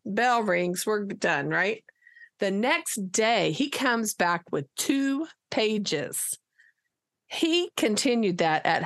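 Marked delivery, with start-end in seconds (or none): none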